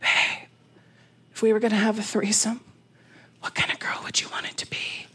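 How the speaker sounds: soft, hushed, secretive whisper. Retelling sneaking up behind him in the bathroom: retelling a whisper. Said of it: "I whisper in his ear".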